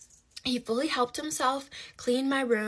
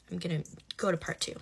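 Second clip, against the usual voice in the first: fast, hushed whisper to herself; a quick whispered note before moving on; whispered aside; 3 semitones lower, faster than usual. Real, not acted. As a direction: murmur it quickly under your breath.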